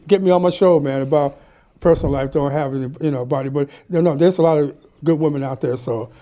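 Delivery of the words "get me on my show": ordinary talk, nothing marked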